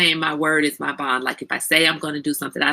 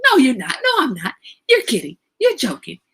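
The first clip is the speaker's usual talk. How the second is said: higher, quick retold protest; mock disbelief; 5 semitones higher than usual. Retelling her protest to her son about the late hour, mock disbelief. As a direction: act out refusing to believe it.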